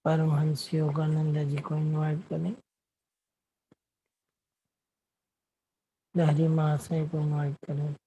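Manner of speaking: unhurried meditation guidance with long silences; guided meditation. Acted. Meditation host guiding the group to watch their breath, guided meditation. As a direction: lead them gently inward, leaving long pauses between phrases.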